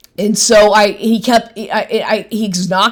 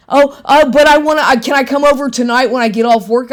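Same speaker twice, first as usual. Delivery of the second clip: mocking his plea; 4 semitones higher, faster than usual. Woman imitating the boyfriend asking to come over, higher wheedling.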